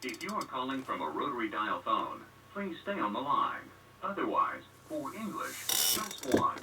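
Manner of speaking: recorded automated menu prompt; phone menu voice. Real, not acted. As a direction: read like an automated phone system.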